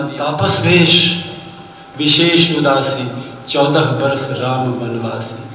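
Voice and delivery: slow, measured scripture recital; drawn-out verse quotation; verse recitation. Acted. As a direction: recite the couplet slowly, phrase by phrase.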